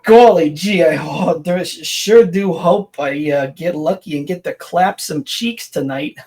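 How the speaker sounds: a hint of an innocent fifties kid; wholesome 1950s kid. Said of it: "combining the most current and oldest".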